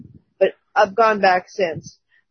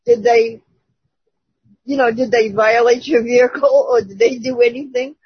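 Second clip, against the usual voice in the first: same calm tone. Retold or imitated. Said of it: "just in the same tone I'm talking to you folks here".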